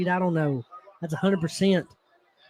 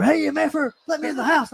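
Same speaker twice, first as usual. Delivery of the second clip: mock angry demand; 6 semitones higher than usual. Brother locked out, beating on door.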